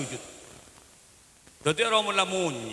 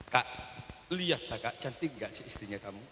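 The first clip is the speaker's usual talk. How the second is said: sulky wife; 5 semitones lower, 10 dB quieter than usual. Retold or imitated. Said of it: "Mesti marah".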